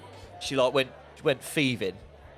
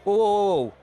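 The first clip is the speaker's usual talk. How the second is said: security guard stopping someone, high and loud; 6 semitones higher, 5 dB louder than usual. Retold or imitated. Security guard stopping a shoplifter, loud whoa. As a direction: halt them like a guard. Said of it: "the security guard comes over and he goes".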